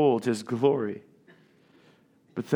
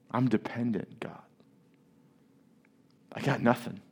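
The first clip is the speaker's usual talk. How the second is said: humble prayer; 2 semitones lower than usual. Retold or imitated. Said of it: "We ought to humble ourselves".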